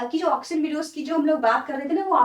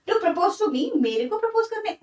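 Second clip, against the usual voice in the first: shocked daughter; 7 semitones higher than usual. Acted.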